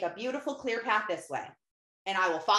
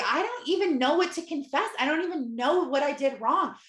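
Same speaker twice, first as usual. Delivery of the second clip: exasperated; 4 semitones higher than usual. Retold or imitated. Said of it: "I literally was like".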